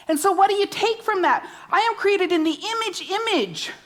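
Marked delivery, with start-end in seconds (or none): 1.7-3.7 preacher repeating image for weight; emphasis on image. Shown as a demonstration. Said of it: "See, it's emphasis".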